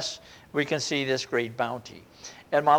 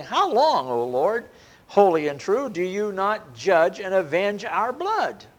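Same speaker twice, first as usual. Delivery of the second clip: a touch of an anguished plea, raised; mild loud cry; 3 semitones higher than usual. Acted. Martyrs under the altar crying to God, mildly raised. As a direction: call out to the Lord, half-performed. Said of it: "these people cry with a loud voice".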